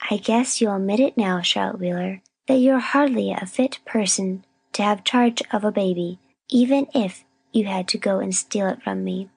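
measured, self-righteous reproach; weary scolding. A narrator's reading. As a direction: lecture her wearily after the long ordeal. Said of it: "long sigh of weariness".

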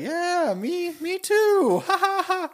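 high, slow goofy Gonzo voice; high creaky Muppet drawl into the camera; slow mock Gonzo aside.

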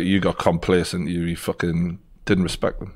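a lightly voiced stern coach; stern coach imitation. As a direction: tell him off like a disappointed coach. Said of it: "D C was like".

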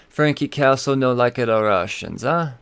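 lightly put-on Italian accent; a quick mock Italian tough-guy line. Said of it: "in a Italian voice".

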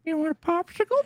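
very high, creepy cartoon-impression voice; Brad. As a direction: creep up behind someone with a high character voice. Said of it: "he'd come up behind me".

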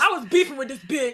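laughing loud and high. Real, not acted. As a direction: blurt it out through laughter. Laughing about their beef.

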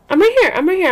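reassuring. Real, not acted. Answers fussing baby.

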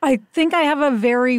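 slightly scratchy, tired throat. Real, not acted. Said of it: "even now I sound scratchy".

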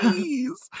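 put-on a tiny child's plea; pleading little girl. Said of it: "She's like".

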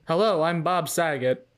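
cheery showman Bob Saget voice; hammy celebrity hello; Bob Saget impression. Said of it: "Can you do some more lines for me?".

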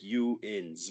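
"you ins" slowly, as two words; sounded-out contraction. Shown as a demonstration. Explaining what yins sounds like, "you ins" slowly sounded out. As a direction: draw "you ins" out to show its parts. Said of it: "it sounds like".

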